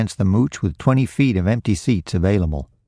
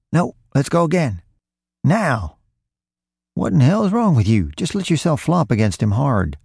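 higher, impatient thief; exasperated scolding; 7 semitones higher than usual. A narrator's reading. Roy berates his partner for not falling hard, exasperated. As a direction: scold a useless partner, pitched up sharply.

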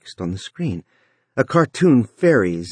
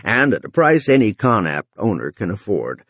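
dark voice. Acted. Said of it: "Runciter's dark voice resumed".

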